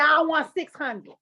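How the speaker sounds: slow, laughing ask for money; slow giggling price demand. Retold or imitated. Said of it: "I said".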